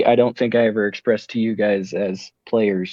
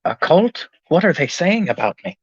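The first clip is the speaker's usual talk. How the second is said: surprised; 6 semitones higher than usual. Acted. Character hears he's called cult.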